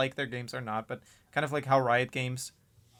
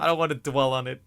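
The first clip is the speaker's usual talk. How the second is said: loud protest; 5 dB louder than usual. Real, not acted. Insisting over co-host's interruption.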